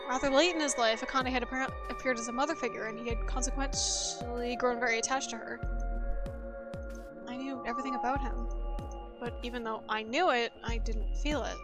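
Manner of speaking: measured, even reading of a first-person story; story narration. A narrator's reading. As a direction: narrate it soberly, like an audiobook. Reads game narration aloud.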